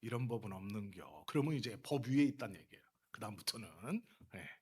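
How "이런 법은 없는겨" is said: low, understated Chungcheong dialect; lightly voiced Chungcheong local, quietly cross; quiet Chungcheong anger. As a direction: drop low for a calm Chungcheong warning. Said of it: "충청도는 화가 나면 조용히 있다가".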